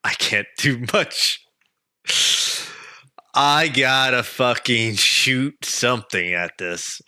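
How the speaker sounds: flat robot voice, slow. Acted. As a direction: deliver it like a robot. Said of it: "like a robot".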